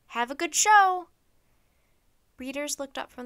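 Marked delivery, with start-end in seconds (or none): 0.1-1.1 high, loud call across the library. Acted. Librarian calling goodbye to Ben across the library, loud and high. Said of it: "Sandy the librarian called".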